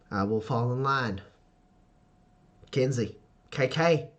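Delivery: measured formal answer with careful pauses; recomposed. Acted. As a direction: pull yourself together and submit formally. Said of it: "immediately recomposes herself and goes".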